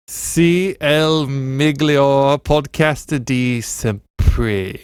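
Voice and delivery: slow, drawn-out Italian with a rolled, sung lilt; Italian phrase. Acted. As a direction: savour each Italian word slowly. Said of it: "which in Italian means".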